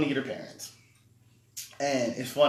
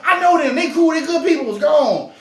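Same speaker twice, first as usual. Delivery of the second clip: imitating white man; 12 dB louder than usual. White man waving wagon on.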